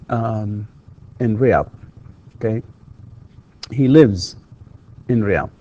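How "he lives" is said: loud "He lives" with a buzzing vz; voiced Z ending. Shown as a demonstration. Teacher showing S is written but Z pronounced, voiced ending. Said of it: "تكتب S ولكن تنطق".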